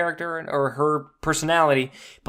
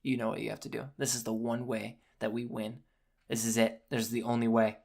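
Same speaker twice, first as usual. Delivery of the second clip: softer, low, grave voice; hushed solemn quote; 4 semitones lower, 10 dB quieter, faster than usual. Retold or imitated. Fan quoting Doctor Strange, hushed and grave. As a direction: say it quietly like a grim secret. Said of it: "and he's like".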